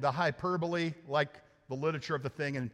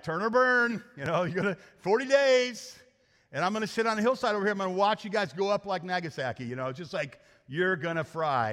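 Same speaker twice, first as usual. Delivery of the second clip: hammed-up fire-and-brimstone Jonah, relishing it; Jonah preaching doom; 2 semitones higher, 4 dB louder than usual. Preacher mocks Jonah warning Nineveh, hammed-up doom shout. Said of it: "and he's like".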